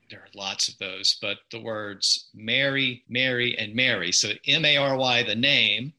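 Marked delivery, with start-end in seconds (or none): 2.3-4.1 "Mary", "Mary" and "Mary" all sounding alike; identical vowels. Shown as a demonstration. Linguist showing three words merged in his accent, identical vowels. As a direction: say each "Mary" with the same vowel. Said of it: "In my accent ... I pronounce them basically the same way".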